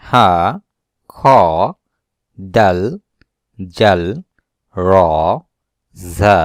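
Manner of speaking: Arabic letter names, each said slowly and separately; name each Arabic letter with a pause after it; reciting letter names. Shown as a demonstration. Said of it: "reciting Arabic letter names".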